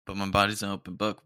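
mock the line as you repeat it. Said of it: "It's the stupidest thing I've ever said".

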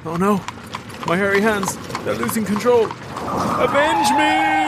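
hammy dying cry, shouting at end; overacted death scene. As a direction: ham up a dying ghost. Dying ghost voice, hammed up.

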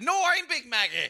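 loud, high-pitched hammy proclamation; mock-dramatic stage announcement; bursting-in actor. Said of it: "He burst in one day and said".

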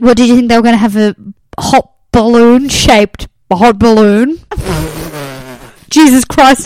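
weird put-on posh voice. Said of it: "posh voice that keeps recurring".

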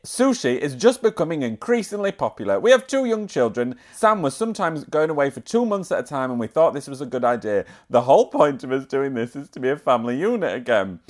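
put-on light Yorkshire accent reading a quote. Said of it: "I'm reading this in a Yorkshire accent".

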